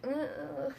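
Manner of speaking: mock choking grunt; imitated choking. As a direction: act out a struggling choke noise. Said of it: "like, coughing and choking".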